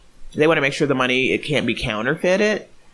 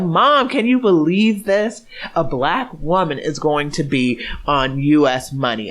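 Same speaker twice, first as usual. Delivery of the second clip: breathless joy at the big news; excited. Retold or imitated. Daughter calls her mom, lightly replaying her slow excited disbelief. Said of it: "overwhelmed and emotional and excited".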